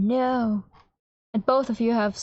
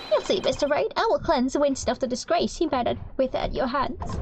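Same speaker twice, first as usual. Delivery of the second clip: higher, smug sneering prosecutor; 4 semitones higher than usual. Acted. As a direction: sneer like a cocky rival lawyer. Prosecutor Gaspen Payne threatens.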